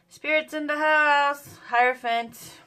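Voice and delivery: loud, slow, high announcement; excited shout. Real, not acted. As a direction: call it out like a big reveal. Card reveal excitement.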